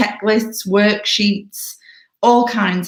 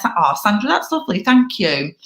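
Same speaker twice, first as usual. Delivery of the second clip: gracious thanks; 3 semitones higher than usual. Shown as a demonstration. Demonstrates the opening compliment to Sandra.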